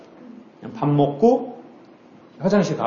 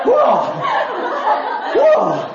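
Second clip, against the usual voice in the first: mock wow; 4 semitones higher, much slower than usual. Mocking onlookers at a restaurant fish tank, hammed-up wow. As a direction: overplay the amazement for laughs. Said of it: "이래요?".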